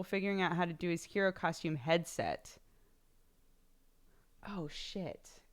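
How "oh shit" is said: unvoiced whispered oh shit; whispered curse. Real, not acted. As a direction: whisper it under breath. Realizes mid-stream.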